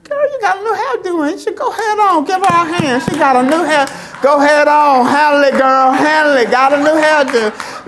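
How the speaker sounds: high, loud sassy cheering; excited church hype. Acted. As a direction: whoop her up over the hairdo. Mock church shouting about a hairdo.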